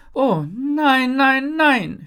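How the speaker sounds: high, loud, drawn-out wail; alarmed calling out. A narrator's reading. Jin calls from behind the growing ice mountain, alarmed. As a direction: call out in mounting dismay. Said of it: "höre ich Jin ... rufen".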